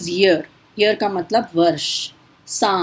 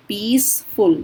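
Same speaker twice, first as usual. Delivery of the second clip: पीसफुल broken into two beats, पीस, then फुल; split into syllables; 2 semitones higher than usual. Shown as a demonstration. Teacher showing students two syllables, पीसफुल split in two. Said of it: "इनमें दो syllables हैं".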